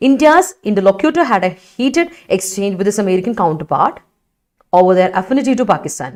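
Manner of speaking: slow, careful reading of an example sentence. Shown as a demonstration. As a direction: read the sentence out slowly for the class. Teacher reads example sentence. (വാക്യം പതുക്കെ വായിക്കുന്നു)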